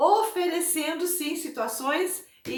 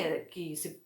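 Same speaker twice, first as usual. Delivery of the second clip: normal talking voice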